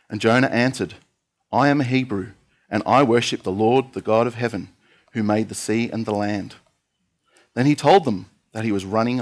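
measured, earnest Bible reading aloud; scripture reading. Acted. Preacher reading Jonah aloud to the church, steady and earnest. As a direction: read the story of Jonah to the congregation.

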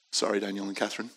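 airy breathless laugh into a soft apology; embarrassed laugh. Real, not acted. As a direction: laugh it off, sheepish. Laughs at own irritability.

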